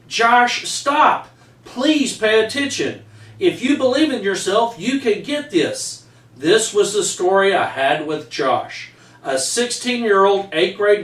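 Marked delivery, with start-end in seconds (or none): 0.1-6.0 a higher, sharper call to order, then softening; firm teacher. Retold or imitated. Teacher calling a distracted Josh back to work, firm then coaxing. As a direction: pull the student back to task, kindly but firm.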